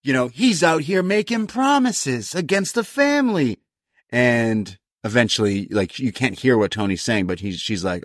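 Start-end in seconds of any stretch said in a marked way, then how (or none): 0.3-3.6 mock Italian accent. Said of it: "thick Italian accent".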